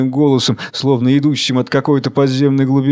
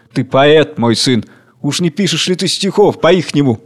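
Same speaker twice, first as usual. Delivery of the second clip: teasing, lilting jibe; mocking. King teases the worker as a poet, mocking. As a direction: needle him with mock interest. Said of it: "Царь голод насмешливо".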